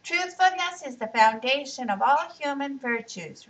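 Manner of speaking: put-on boy reciting the family motto virtuously; virtuous recitation. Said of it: "recited Riaz virtuously".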